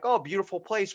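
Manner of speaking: high, loud polite compliment; polite gushing. Retold or imitated. Guest complimenting a host's home, trying to be polite. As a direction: put on a polite, admiring front. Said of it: "I'm trying to be polite".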